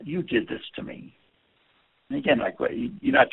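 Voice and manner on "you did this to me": softer, breathy hurt accusation; soft hurt complaint; low-energy accusation. Shown as a demonstration. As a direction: say it quietly, almost whispered. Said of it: "Another example".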